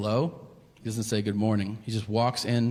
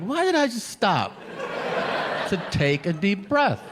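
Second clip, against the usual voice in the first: much higher, louder, slow breathless rant at himself; mock self-scolding; 8 semitones higher, 4 dB louder, slower than usual. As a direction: berate yourself in a high, winded squeal. Self-talk, out of breath eating.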